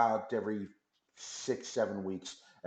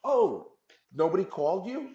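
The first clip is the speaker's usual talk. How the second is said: surprised; 9 semitones higher, 5 dB louder than usual. Retold or imitated. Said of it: "the place that we've rented and says".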